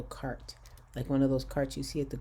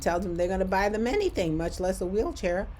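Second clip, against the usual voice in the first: higher-pitched, emphatic disbelief; incredulous; 5 semitones higher, 3 dB louder than usual. Real, not acted. Telling of a stranger's wild offer, incredulous. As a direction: build a rhetorical question in amazement.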